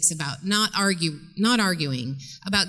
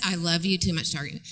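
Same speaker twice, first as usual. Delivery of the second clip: sincere; 3 semitones lower, 3 dB quieter, faster than usual. Shown as a demonstration.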